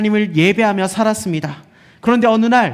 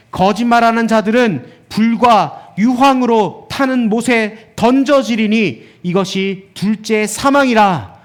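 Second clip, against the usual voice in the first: emphatic, raised preaching voice; proclaimed scripture warning; 2 semitones higher, 3 dB louder, slower than usual. Acted. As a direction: read it out as a stern public warning. (성경 말씀을 힘주어 엄중히 선포하듯)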